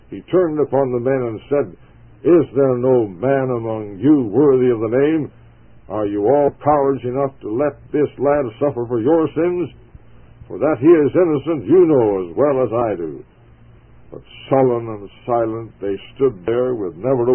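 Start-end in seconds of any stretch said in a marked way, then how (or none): 2.2-13.2 furious rebuke. Acted. Colonel rebuking his silent men, angry. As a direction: scold the silent men as cowards, with rising anger. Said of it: "in a fury of anger and disgust".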